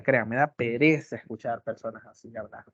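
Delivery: ordinary delivery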